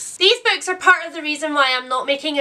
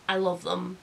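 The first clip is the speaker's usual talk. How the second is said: I love them, said softly and lower; soft quiet confession; 5 semitones lower, 8 dB quieter than usual. Real, not acted. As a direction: drop to a soft sincere murmur. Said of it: "I don't care how absurd they are".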